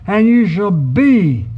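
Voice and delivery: slow, with be weighted and falling; stress on be. Shown as a demonstration. Preacher pointing the congregation to be, stressed slowly. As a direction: lean slowly into the word be. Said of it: "I want you to notice the word be".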